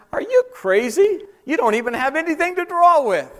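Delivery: high, scornful Samaritan woman; mocking woman. Woman mocking the stranger at the well, high and scornful. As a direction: scoff at him as if he's mad. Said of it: "could she be saying to him".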